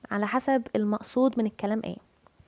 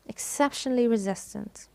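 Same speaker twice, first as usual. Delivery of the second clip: "Exceptionally" with its second syllable stressed; stress on CEP. Shown as a demonstration. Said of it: "C E P". (التشديد على "cep" في "Exceptionally")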